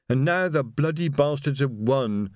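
slow, despairing moan. Acted. Reg behind the barricade moaning in defeat, slow. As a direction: groan it out as if all is lost. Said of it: "moaned Reg".

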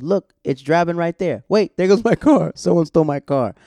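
high, loud retold cry of alarm; alarmed outcry. Friend spotting his own car being driven off, imitated alarm. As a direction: act out a friend's sudden startled shout.

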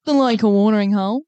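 put-on a light broad Aussie Kath and Kim accent. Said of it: "Sounds like a fucking Kath and Kim accent".

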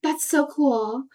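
high, amazed over-interest; gushing excitement. Retold or imitated. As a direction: gasp and gush in wonder. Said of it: "be like".

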